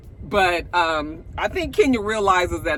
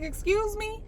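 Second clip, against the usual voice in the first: indignant; 14 semitones higher, 7 dB quieter than usual. Retold or imitated. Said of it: "And Drew was like".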